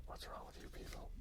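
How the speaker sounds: very soft, whispered grumble; hushed grumble at whoever printed it so small; exasperated whisper. Real, not acted. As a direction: complain under your breath. Grumbles about unreadable small print.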